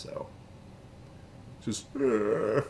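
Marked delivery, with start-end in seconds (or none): 1.9-2.6 choking groan. Acted. Mimics the drawn choking face.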